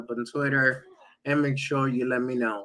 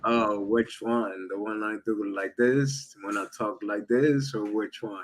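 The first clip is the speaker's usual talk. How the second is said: sultry voice; 3 semitones lower, 3 dB quieter than usual. Shown as a demonstration. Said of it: "know your sultry voice".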